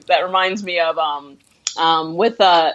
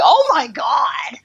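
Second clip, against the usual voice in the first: slow, stunned gasp of disbelief, pitched up; shocked oh my God; 6 semitones higher, much slower than usual. Retold or imitated. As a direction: drag it out in amazement. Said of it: "I was like".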